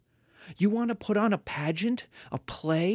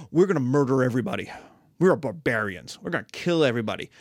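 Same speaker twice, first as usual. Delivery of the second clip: gruff barbarian; 5 semitones lower, 4 dB louder, faster than usual. Acted. Barbarians announce slaughter.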